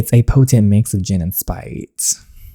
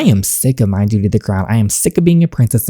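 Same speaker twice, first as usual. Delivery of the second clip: angry outburst; faster than usual. Acted. Princess shouts at her parents.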